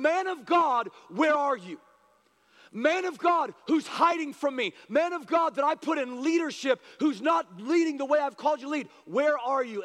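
God calling his leaders who hide from him; God's heart cry. Acted. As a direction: plead with the men in God's voice. Preacher voicing God's call.

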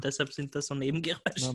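talking with a mouthful of chocolate; chewing while talking. Real, not acted. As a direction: mouth full, words round a bite. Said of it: "ich muss mir grad da die Schoki auszahlen". (mit vollem Mund sprechen)

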